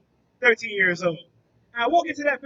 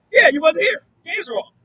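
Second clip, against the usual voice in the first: put-on kids' reply; 4 semitones higher, 4 dB louder than usual. Kids answer, retold.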